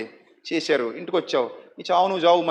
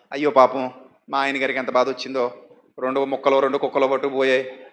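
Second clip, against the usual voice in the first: mock pity; 7 semitones lower than usual. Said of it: "జాలి ఏమీ చూపించరు".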